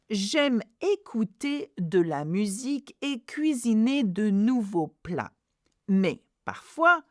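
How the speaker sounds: careful French model reading for repetition; teacher leading learners through a French text; read after me. Shown as a demonstration. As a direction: read aloud clearly, phrase by phrase. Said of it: "Read after me. Lisez avec moi".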